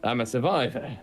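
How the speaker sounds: prying dwarf, rising questions; curious dwarf. Acted. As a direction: press a fellow dwarf with questions. Player voices curious dwarf.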